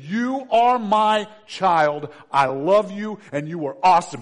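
booming preacher's voice of affirmation; Father in heaven. Acted. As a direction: proclaim love slowly at full force. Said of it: "your Father in heaven's voice saying".

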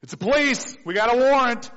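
loud mock cop at the door; mock police. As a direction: bark it like a pretend officer.

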